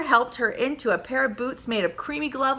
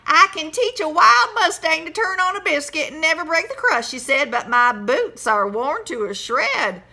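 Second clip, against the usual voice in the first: loud, higher bragging trainer; horse trainer voice; 6 semitones higher, 5 dB louder than usual. Acted. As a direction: boast about taming mustangs.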